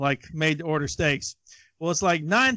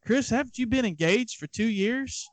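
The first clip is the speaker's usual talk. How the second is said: deadpan; 4 semitones higher, 5 dB quieter than usual. Retold or imitated. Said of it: "And then deadpan".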